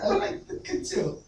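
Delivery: high-pitched, breaking up with laughter; laughing. Real, not acted. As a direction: crack up while squeezing out the words. Host cracking up mid-sketch.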